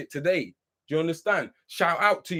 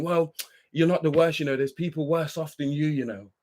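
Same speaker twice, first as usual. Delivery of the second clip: mocking a common saying; 4 semitones lower than usual. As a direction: parrot the old saying with mild contempt. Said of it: "heard that saying".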